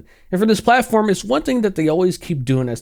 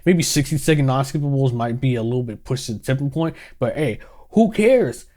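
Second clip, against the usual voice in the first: softer, dismissive shrug of a voice; mocking the CEO; 4 semitones lower, 3 dB quieter than usual. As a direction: brush off the viewers carelessly. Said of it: "to see this moron say".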